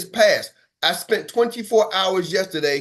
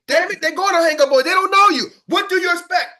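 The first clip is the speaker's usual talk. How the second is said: exasperated; 11 semitones higher, 5 dB louder than usual. Real, not acted. Scolding the team about hang-ups.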